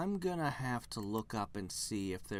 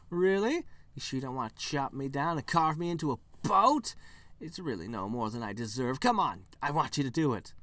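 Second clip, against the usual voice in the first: self-pitying tree; 4 semitones higher, 5 dB louder than usual. Acted. Tree begging to be chopped.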